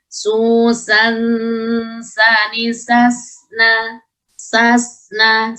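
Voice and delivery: "susan, sani, sasna" chanted with flowing, held s; rukhawah. Shown as a demonstration. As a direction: let the s in "sasna" run on. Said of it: "sifat rukhawahnya". ("sasna" dengan desis s mengalir)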